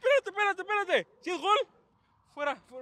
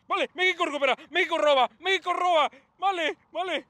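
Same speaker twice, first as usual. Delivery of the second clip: higher, punchy play-following calls; excited urging; 5 semitones higher, 4 dB louder than usual. Real, not acted. Fan watching México steal the ball, excited urging. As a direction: call it out with mounting excitement.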